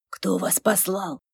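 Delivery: slow, menacing demon voice; quiet threat from a demon; creeping nightmare whisper. Acted. Demon interrogating werewolf.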